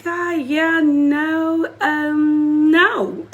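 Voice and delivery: high, hesitant mock reluctance; reluctant to God. Telling the audience how she answers God, high mock reluctance. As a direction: play someone dodging God's call. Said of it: "it's usually like".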